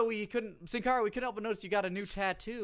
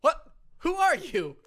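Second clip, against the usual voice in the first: high, loud shocked question; shocked demand; 12 semitones higher, 10 dB louder, slower than usual. Acted. Interviewer confronting the unmasked impostor, shocked and loud. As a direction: demand it at full volume.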